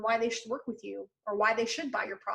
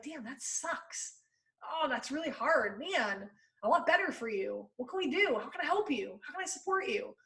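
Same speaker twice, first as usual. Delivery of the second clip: caring friend; 2 semitones higher, 5 dB quieter than usual. Retold or imitated. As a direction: comfort a friend who feels out of shape. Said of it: "That's the kind of tone that you wanna take".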